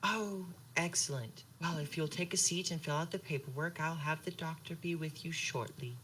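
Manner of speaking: hushed receptionist voice; polite receptionist. Acted. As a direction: murmur the welcome sweetly.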